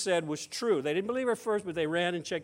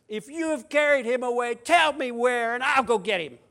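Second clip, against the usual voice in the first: louder, pleading demand; mild urgent pleading; urgent plea; 3 semitones higher, 5 dB louder than usual. Acted. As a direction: beg him to tell you where. Mary pleads with supposed gardener.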